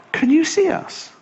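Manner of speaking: high eager polar bear. Retold or imitated. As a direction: ask it like a desperate child. Polar bear asks hare.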